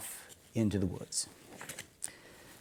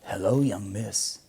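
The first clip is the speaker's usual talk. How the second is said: soft-spoken friendly stranger; friendly wolf; 5 dB quieter than usual. Acted. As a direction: coax her in gently. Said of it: "said a friendly voice".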